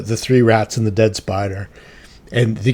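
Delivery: ordinary talk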